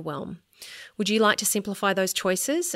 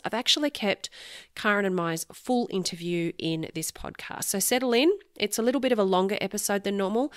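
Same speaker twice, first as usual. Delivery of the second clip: nasal voice. Real, not acted. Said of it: "if I sound more nasally".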